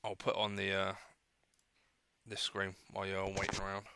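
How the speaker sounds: talking through a mouthful; eating between words, mouth full; wolfing down food. Real, not acted. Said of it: "I'm gonna try and eat".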